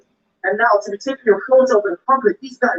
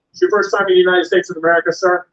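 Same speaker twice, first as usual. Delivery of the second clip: mock officer; 2 semitones lower than usual. Immigration officer questioning.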